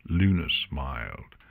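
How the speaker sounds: plain reading voice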